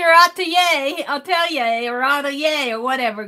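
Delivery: atelier said several different ways, unsure each time; butchered pronunciation. Shown as a demonstration. Streamer jokes about mangling foreign words, self-mocking. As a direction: fumble through versions of atelier. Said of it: "I'm probably butchering that".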